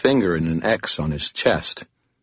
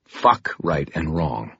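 quiet threat; slower than usual. Acted. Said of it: "I continued to speak quietly, never raising my voice".

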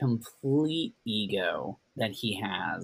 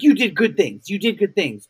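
mock placating Gordon; 7 semitones higher, 8 dB louder than usual. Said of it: "I, I, like".

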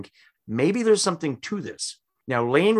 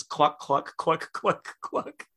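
read-out clucks; 4 semitones higher, 3 dB quieter, much slower than usual. Retold or imitated. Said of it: "all it says is".

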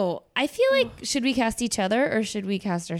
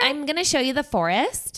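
lightly voiced fox character, a bit higher; imitating Vixie; 3 semitones higher than usual. Cohost recalling how Vixie sounds in the film, light imitation. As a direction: quote the film character, slightly raised pitch. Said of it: "trying to remember what she said".

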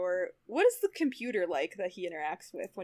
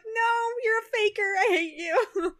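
much higher, whiny mock protest; mock jealous whine, louder and higher; mock upset; 11 semitones higher, 3 dB louder, slower than usual. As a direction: possessive fan wail, hammed-up. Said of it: "I get, like, weirdly upset".

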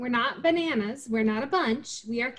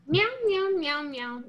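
mewing like a kitten, starting high then dropping; playful imitation of meowing kittens; mock kitten meowing; 5 semitones higher, slower than usual. Teasing a friend about exhausted kittens, mock meowing. Mimics the kittens just described.

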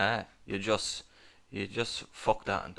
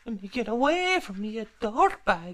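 mock outrage; 11 semitones higher than usual. Mock rejecting a sleazy line.

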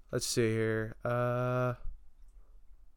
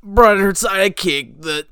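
put-on panicky old man. Same panicky character.

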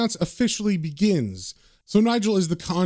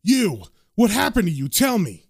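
mildly raised, urgent questioning; acted yell, held back; yelled demand; 4 semitones higher than usual. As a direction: demand answers, a little higher and firmer. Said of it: "he yells at them".

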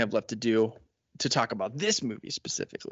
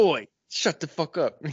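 mock Cockney; 5 semitones higher, 4 dB louder than usual. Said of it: "He's like".

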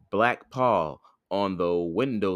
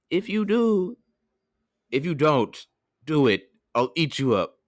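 raised cartoon wolf threat; wolf's threat; 8 semitones higher, 5 dB louder than usual. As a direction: menace the miller, high and firm. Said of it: "But the wolf said".

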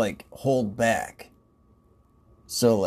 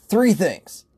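laughing repeat; 8 semitones higher, 6 dB louder than usual. Retold or imitated.

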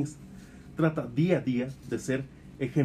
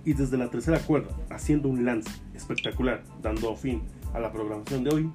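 wrestling commentator. Acted. Show sign-off over music.

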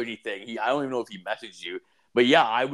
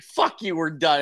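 mock angry breakup; 5 semitones higher, 4 dB louder than usual. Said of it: "you're like".

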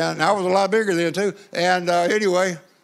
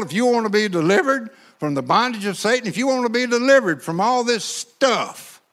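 preacher's altar call; 3 semitones higher than usual. Retold or imitated. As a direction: call them down to the altar with rising fervour. Evangelist's altar call, retold.

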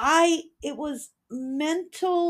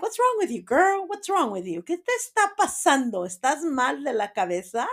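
exasperated; 4 semitones higher, faster than usual. Retold or imitated. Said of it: "Back then I was like".

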